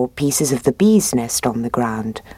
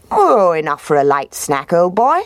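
sly fox voice; 2 semitones higher than usual. Acted.

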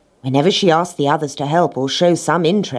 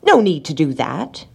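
lightly jolly miller, kindly offering; smiling. A narrator's reading. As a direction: say it with an easy smile. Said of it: "he smiled".

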